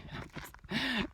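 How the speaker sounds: a short high self-mocking laugh; laughing at herself. Real, not acted. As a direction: laugh at your own vision. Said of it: "as I laugh".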